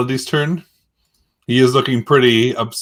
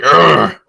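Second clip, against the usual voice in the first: grimacing grunt; 6 dB louder than usual. Retold or imitated. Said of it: "He kinda grimaces, like".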